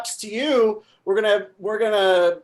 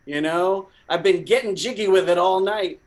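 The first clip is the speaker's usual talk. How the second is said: stoner party dude; 3 semitones lower than usual. Acted. Stoned party guy voiced in skit.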